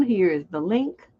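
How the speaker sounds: usual speaking voice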